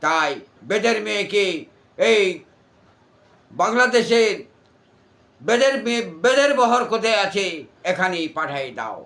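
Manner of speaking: booming stage demon voice, ranting; jatra demon role. Acted. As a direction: declaim like a folk-theatre demon. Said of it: "এটা সাপুরের মেয়ে যাত্রা অভিনয় দানবের". (যাত্রার দানবের কণ্ঠে অভিনয়)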